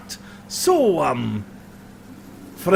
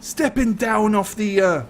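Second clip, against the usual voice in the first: mock humble robber; 4 semitones higher than usual. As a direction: feign humility, then demand it all. Highlander feigns humility, then demands belongings.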